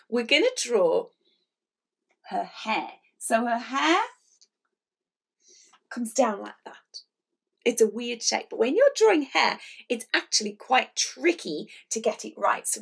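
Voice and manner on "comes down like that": whispered aside. Real, not acted. Aside while drawing.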